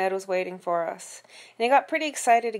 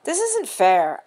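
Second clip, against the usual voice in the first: slow whine; 4 semitones higher, 7 dB louder, much slower than usual. A narrator's reading. Boy complains.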